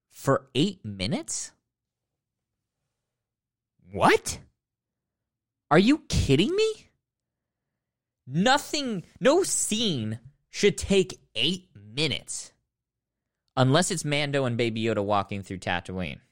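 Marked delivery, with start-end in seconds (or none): 3.9-12.5 high, disbelieving outburst; stunned disbelief; incredulous outrage. Real, not acted. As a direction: shoot up in pitch, can't believe it. Outrage at an eight-minute pie scene.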